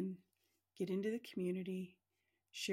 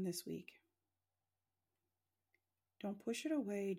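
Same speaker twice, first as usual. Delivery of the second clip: guided meditation. Acted. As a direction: guide them gently into relaxing.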